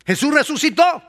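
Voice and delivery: high, loud joyful proclamation; exultant shout. Real, not acted. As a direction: proclaim it with joy.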